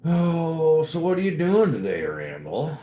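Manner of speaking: cheery high greeting to a viewer about his plans; playful high voice. Pretend. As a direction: chirp it up high like a cheery host.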